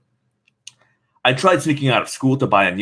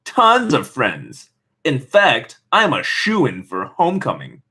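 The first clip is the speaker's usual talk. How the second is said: slow, dripping sarcasm; mock brightness, laying it on thick; sarcastic; slower than usual. Teen daughter brushing off her mom, sarcastic. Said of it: "my voice dripping with sarcasm".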